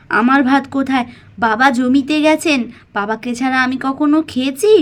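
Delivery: a hint of a caring mother hiding tears; lightly voiced gentle mother. Mala, to her daughter Pakhi, tenderly hiding her tears. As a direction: soothe the child, brush off the crying.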